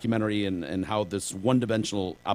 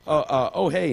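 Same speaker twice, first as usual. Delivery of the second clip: Apu voice; 5 semitones higher, 4 dB louder than usual. Retold or imitated. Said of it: "he's using the Apu voice".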